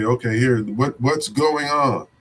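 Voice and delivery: slow, patient open question; slow and gentle, showing how to listen to the kids; calm listening. Shown as a demonstration. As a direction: draw it out gently, inviting them to talk.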